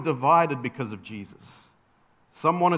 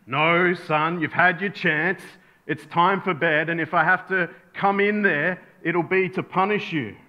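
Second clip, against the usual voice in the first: lightly voiced stern father; serious dad voice. Father warns his son at bedtime, serious dad voice. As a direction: lay down the law, mildly acted. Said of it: "puts on his dad voice, his serious voice".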